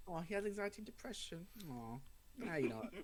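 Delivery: high, fast pitying creature; pitying monster. Retold or imitated. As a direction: coo with mock pity. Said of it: "I think it's more just like".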